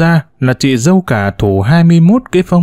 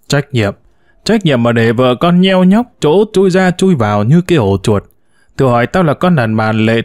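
bà mẹ giận dữ. Acted. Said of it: "Mụ vợ tôi lại khùng lên".

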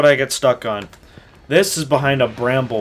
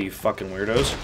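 whisper; 6 semitones lower, 10 dB quieter than usual. Real, not acted. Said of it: "Why am I whispering?".

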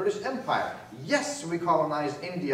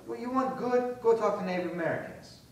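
higher, rising challenge on each "want good"; mock rant, jabbing; heated retort; 5 semitones higher than usual. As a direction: throw the question back in their face.

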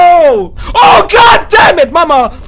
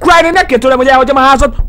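mock pleading shout; 4 dB louder, much faster than usual. Pleading with the game villain.

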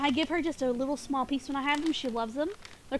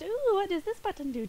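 higher, lilting cartoon girl voice; Dee Dee impression; 6 semitones higher than usual. Streamer mimicking Dee Dee at a button, higher playful voice. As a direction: lightly play a curious girl, pitched up. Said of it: "I can do Dee Dee's voice".

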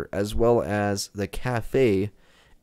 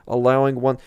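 put-on louder, higher Gru-ish Russian accent; 6 semitones higher, 6 dB louder than usual. Gamer reading the guide in a louder Gru-like Russian accent. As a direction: push the accent toward Gru. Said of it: "sounds a lot more like Gru".

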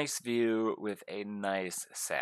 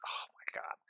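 hushed, softer whisper of wonder; awed whisper; 9 dB quieter, faster than usual. Real, not acted. Staring at the rings in a hushed awed whisper. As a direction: breathe it out in awe.

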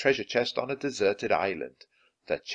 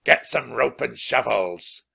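slow, louder pirate captain bellow; captain roaring orders at his men; roared order; 2 semitones higher, 6 dB louder, slower than usual. A narrator's reading. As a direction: bark the order to the crew. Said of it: "he roared at his men".

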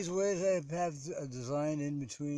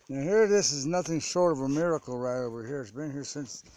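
odd put-on voice; 5 dB louder than usual. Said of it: "I don't know why I'm talking like this".

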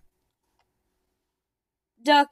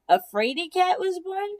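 puzzled question; 6 semitones higher than usual. Acted. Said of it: "said Duck".

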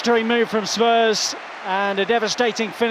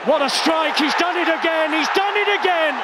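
building, higher and higher call; excited goal call; 5 semitones higher than usual. Real, not acted. Commentator celebrating the goal, building excitement. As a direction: let it build to the repeated line.

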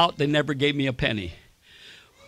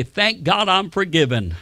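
model phrase to repeat. Shown as a demonstration.

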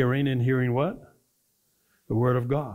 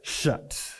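breathy whispered "Shut."; whispered answer; 6 dB quieter than usual. Shown as a demonstration. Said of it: "and the door was what?".

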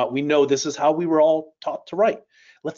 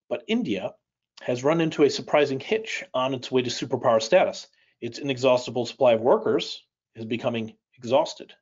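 slowed-down reading. Shown as a demonstration. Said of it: "Now I'm gonna slow it down on the next paragraph".

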